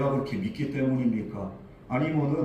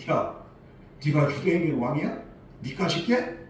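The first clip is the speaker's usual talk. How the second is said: scornful, belittling question; a touch of contempt, lightly voiced; mocking; 2 semitones higher than usual. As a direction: sneer at him as a nobody. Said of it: "이런 어투로".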